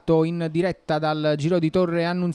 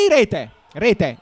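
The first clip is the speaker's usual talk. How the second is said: goal call; 5 dB louder than usual. Real, not acted. Equaliser goal called.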